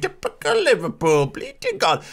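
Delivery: a hammed-up taunting football fan; mocking rival fans. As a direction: lampoon the gloating fans. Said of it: "And everyone goes".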